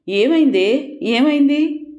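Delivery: high, frantic questioning; desperate plea for an answer; a mother begging her sobbing daughter to speak, frantic and high; panicked. Acted.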